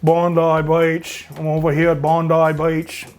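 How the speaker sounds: slow, hammed-up Aussie tourist line with Beach as boitch; a light put-on Australian accent, stretched out; a bad Australian accent done for fun; mock Australian accent. Shown as a demonstration. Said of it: "what do they say?".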